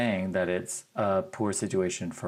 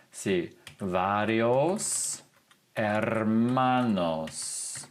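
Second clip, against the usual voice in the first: slow model answer; much slower than usual. Shown as a demonstration. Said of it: "slow answer for learners".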